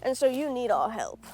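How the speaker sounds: lightly put-on British accent, smug; a condescending British do-gooder, only hinted; mock British accent. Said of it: "become British for some reason".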